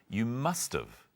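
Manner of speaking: slow emphasis on must; teacher modelling must have; slow and careful. Shown as a demonstration. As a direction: spell it out slowly. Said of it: "Anne says".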